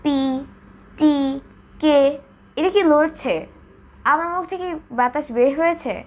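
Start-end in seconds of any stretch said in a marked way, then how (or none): 0.0-2.0 crisp পি টি কে, no breath after; Bengali-style unaspirated পি টি কে. Shown as a demonstration. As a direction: say পি, টি, কে with no puff of air. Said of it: "আমরা usually এটাকে এভাবে বলি".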